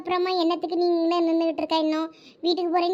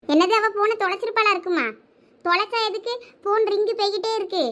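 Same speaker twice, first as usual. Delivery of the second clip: a lightly voiced mother, agitated; anxious mother; 4 semitones higher than usual. Mother anxiously wondering why her daughter won't answer, lightly voiced. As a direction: fret aloud, brushing off questions.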